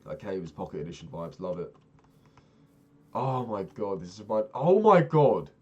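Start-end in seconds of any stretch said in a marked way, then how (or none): 3.1-5.5 oh my god shouted high and loud; excited shout. Real, not acted. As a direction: blurt it out in sheer delight. Spots familiar Minecraft terrain.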